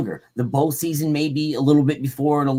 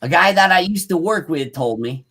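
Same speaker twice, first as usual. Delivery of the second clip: projected, deliberate account reading; story read-aloud. A narrator's reading. Host reading about tracks and yells, story read-aloud.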